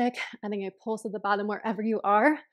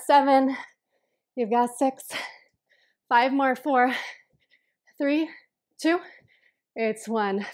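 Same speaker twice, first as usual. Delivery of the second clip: loud; 4 semitones higher, 5 dB louder, slower than usual. Real, not acted. Coach counting down last reps.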